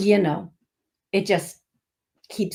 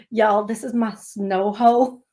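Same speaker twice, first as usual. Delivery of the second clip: Louisiana accent attempt. Retelling a Louisiana guy showing his snow hoe, light accent attempt. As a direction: have a half-hearted go at a Louisiana accent. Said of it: "I can't do his accent".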